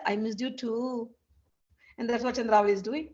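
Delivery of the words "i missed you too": tender slow reply. Shown as a demonstration. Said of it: "Krishna will say".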